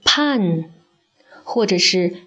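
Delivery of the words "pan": pan said with a flat a instead of pine; 示范错误读音pan; wrong example. Shown as a demonstration. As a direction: show the common mistake pan. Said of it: "很多人会把这个词读作".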